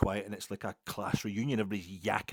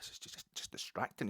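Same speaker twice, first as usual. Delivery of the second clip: whispered complaint; 3 semitones higher, 5 dB quieter than usual. Retold or imitated. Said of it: "and I'm like".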